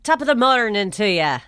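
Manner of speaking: lightly attempted Irish greeting; token Irish accent. Shown as a demonstration. Host offering her only Irish phrase, token Irish accent. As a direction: have a small go at Irish. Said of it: "The only thing I can do".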